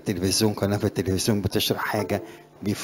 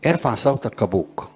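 a firm, louder call to sound out; loud command; 4 dB louder than usual. Retold or imitated. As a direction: proclaim it like a trumpet blast. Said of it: "ربنا بيقول له إيه؟". (نداء عالٍ حازم كالبوق)

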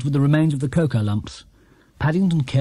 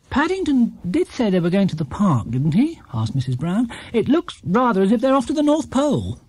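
mother voice; 6 semitones higher than usual. Acted. Mrs Brown voiced.

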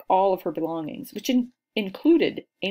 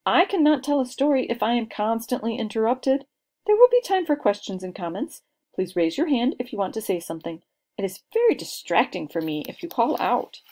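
put-on firm, higher, louder girl scolding the class; 5 semitones higher, 5 dB louder than usual. A narrator's reading. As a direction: lay down the rules like a tiny teacher. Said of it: "she said in a firm voice".

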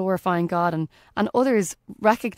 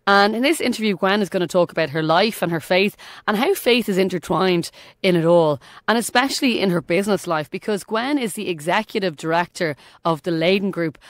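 upbeat announcer. Acted. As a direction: present the guest like a radio host. Introduces the guest interview.

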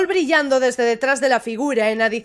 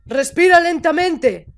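raised, insistent coaching; firmer repeat; 3 dB louder than usual. Acted. Figure insists the panicking character breathe, firm and raised. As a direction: repeat the breathing order more forcefully. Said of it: "¡Para de gritarme".

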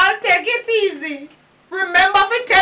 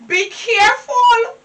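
tearful warning; slower than usual. Acted. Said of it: "You hear me warning you?".

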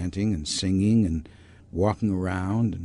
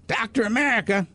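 guru calling him; 12 semitones higher than usual. Retold or imitated. Guru summoning his disciple by name, high call.

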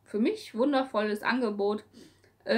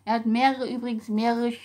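usual speaking voice

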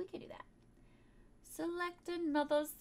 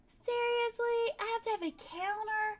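exasperated; 6 semitones higher, 3 dB louder than usual. Real, not acted. No available counter.

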